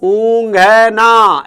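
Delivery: ऊँघना stretched very slowly with nasal ऊँ; slow careful sounding out. Shown as a demonstration. Teacher modelling ऊँघना slowly for pupils. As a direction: drag out ऊँघना syllable by syllable. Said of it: "ऐसे लिखना है".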